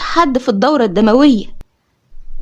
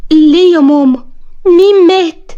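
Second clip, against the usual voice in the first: startled, raised-voice question to mum; startled alarm; 3 semitones higher than usual. Acted. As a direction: ask it with a jolt of fright. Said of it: "اتخضيت من كلامها وقلت لها".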